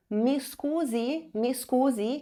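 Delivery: mi scusi spoken slowly in Italian, rising; polite Italian "mi scusi" to a waiter. Shown as a demonstration. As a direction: model "mi scusi" carefully, as if calling a waiter. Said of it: "que significa".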